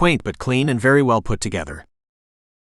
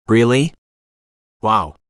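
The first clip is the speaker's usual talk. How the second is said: raised and louder, caught by the story; a lifted, impressed gasp of interest; fascinated by the tale; 6 dB louder, slower than usual. A narrator's reading. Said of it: "I said, fascinated".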